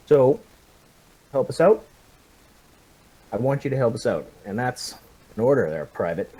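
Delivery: firm, steady officer pressing a prisoner; commanding officer. Acted. Captain ordering the prisoner to give up comm signs, firm. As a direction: lean on him with calm authority. Officer interrogating captured soldier.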